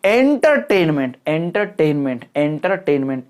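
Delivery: एंटरटेनमेंट with एंटर hit hard, the rest falling away; stress on ENTER. Shown as a demonstration. Teacher drilling stress for students, front-stressed word. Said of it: "एंटर पे stress दे दिया मैंने".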